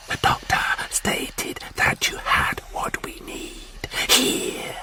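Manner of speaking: slow, hissed, menacing whisper; whispering Martian warlord. Acted. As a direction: breathe the demand like a cold threat.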